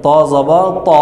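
"ত জবর ত" spelled with thick emphatic t; "ত জবর ত" as in Arabic recitation, heavy t. Shown as a demonstration. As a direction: round each "ত" into a full o. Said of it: "আরবি উচ্চারণটা এসে যাবে".

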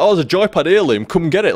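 put-on cajoling of a friend; mock coaxing. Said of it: "they're doing that kind of shit to me".

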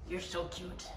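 soft coo. Real, not acted. Cooing at the cat.

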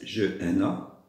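ordinary talk, nothing marked

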